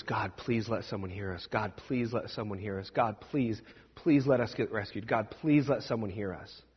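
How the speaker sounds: low, soft pleading prayer; quiet desperate prayer. Acted. Huddled traveler praying alone in the dark cave, low and soft. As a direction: pray under your breath, begging.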